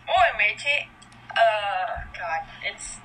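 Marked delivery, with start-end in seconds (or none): 0.0-0.9 pirate voice. Pretend. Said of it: "You sound like a literal pirate".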